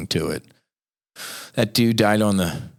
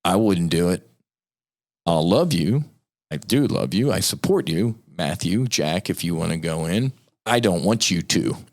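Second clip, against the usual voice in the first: tender fatherly plea; 3 semitones lower than usual. Retold or imitated. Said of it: "tell their boys".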